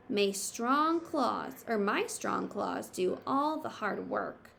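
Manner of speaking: Badger's thoughts. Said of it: "could he have been thinking".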